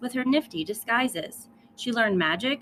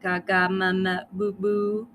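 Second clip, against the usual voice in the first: lightly voiced babbling baby; baby babble. Lily copies the baby's babbling in a babyish voice. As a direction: babble like a gurgling infant.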